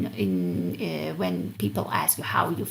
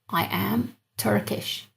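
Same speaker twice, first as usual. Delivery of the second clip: slow model; 4 dB quieter, much slower than usual. Shown as a demonstration. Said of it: "slow translation".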